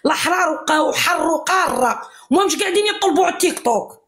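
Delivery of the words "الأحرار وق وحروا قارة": slow proud shout. Real, not acted. Algerian caller shouting in a heated live argument.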